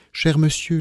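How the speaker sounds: mild appeal for calm, pitch lifted; trying to calm. A narrator's reading. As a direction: gently try to stop an angry man. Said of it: "pour chercher à le calmer".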